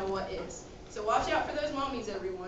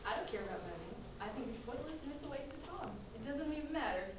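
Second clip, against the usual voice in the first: gloomy downer; 12 dB quieter, faster than usual. Acted. Debbie Downer answers gloomily.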